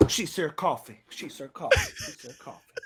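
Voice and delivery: hushed aside, fading away; soft comic host impersonation; Steve Harvey. Acted. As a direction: repeat it softly to the audience. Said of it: "Steve Harvey".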